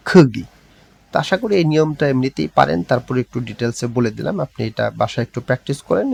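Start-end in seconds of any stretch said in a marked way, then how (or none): 0.1-0.4 "খুগি" with গ carried onto the second syllable; linked pronunciation. Shown as a demonstration. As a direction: say "খুগি" with a g sound, not a k. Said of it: "উচ্চারণটা হয়ে যাবে".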